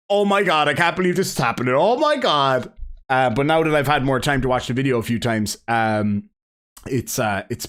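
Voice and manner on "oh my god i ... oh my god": mock-astonished gasping reaction, raised pitch; re-enacted disbelief. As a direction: replay last night's stunned reaction. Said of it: "last night I was just like".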